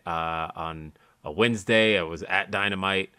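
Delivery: lisping after oral surgery. Real, not acted. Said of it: "why you have a lisp today".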